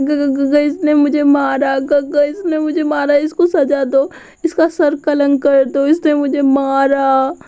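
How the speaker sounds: high, slow, whining sob-talk; hammed-up tearful complaint to big brother; mock crying. Boy clings to Wing and complains in hammed-up tears. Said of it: "रोते रोते बोलता है".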